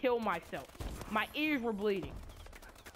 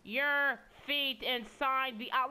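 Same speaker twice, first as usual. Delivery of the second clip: obnoxious mic announcement; 4 semitones higher, much slower than usual. Retold or imitated. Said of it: "her obnoxious microphone".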